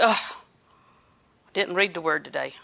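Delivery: a mild guilty letdown; regretful. Pretend. Preacher mimicking a neglectful believer, mild regret. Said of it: "come to the end of the day and say".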